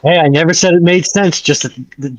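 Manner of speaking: ordinary delivery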